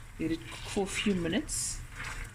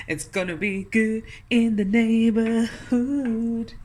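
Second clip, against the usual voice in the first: delighted; 3 semitones higher, 7 dB louder, slower than usual. Real, not acted. Delighted after tasting.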